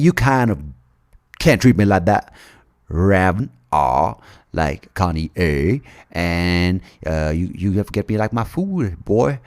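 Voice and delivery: hint of a jumbled world accent; lightly mix Southern American, Indian and African accents. Sita scolding the demon king, in a lightly mixed accent. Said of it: "she's got an accent for everywhere in the world".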